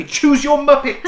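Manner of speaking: high, drawn-out playful yell; playful shout. Pretend. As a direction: blurt it out like a silly catchphrase. Sudden urge to call it out.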